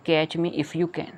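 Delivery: put-on each word slow and clear for children; spelling the line out for kids; slow reading. Shown as a demonstration. Reading the poem title aloud.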